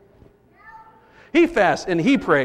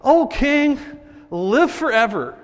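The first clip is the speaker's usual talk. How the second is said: gracious; 6 semitones higher, slower than usual. Shown as a demonstration. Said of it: "What a gracious dude".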